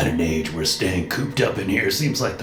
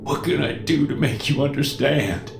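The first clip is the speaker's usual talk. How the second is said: whimpering; 9 semitones higher than usual. Acted. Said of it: "he whimpers".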